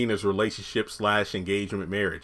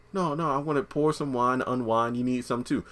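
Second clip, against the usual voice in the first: smooth delivery; 2 semitones higher, 4 dB quieter than usual. Acted. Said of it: "he's trying to be all smooth".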